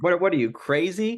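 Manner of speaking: high, loud Russian mom voice; Russian accent. Retold or imitated. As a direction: mimic a Russian immigrant mother. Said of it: "in her Russian accent".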